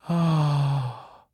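relieved sigh. A narrator's reading. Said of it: "Maroney sighed in sudden relief".

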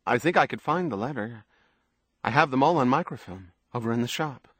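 quick, casual bursts in a light female character voice; lightly voiced woman, untroubled. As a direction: chatter on as if nothing is wrong. Narrator voices the woman's chatty answer.

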